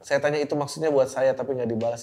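normal talking voice

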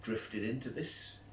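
flat and slow, deflated; glum. Real, not acted. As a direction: say it like it's a sad fate. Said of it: "you sounded so cheerful about it then".

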